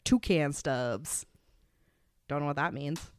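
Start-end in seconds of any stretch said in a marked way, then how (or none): 0.0-1.2 slow, stretched mock politician line; lightly voiced slow campaign-video gibberish; slow bad-lip-reading quote. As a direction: drag out the nonsense words like a dubbed speech. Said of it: "looked like he was going".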